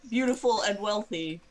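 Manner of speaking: a lightly voiced copy of his whine; mimicking his voice. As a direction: parrot his words back in his voice. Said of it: "exactly in his voice".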